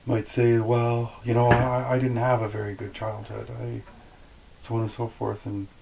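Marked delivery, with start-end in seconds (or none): 0.6-3.8 mildly mock-aggrieved, louder at the start; imitated bitterness. Some people blaming their childhood, mildly imitated bitterness. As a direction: lightly put on a bitter complainer. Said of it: "they'll sound really angry or bitty or bitter".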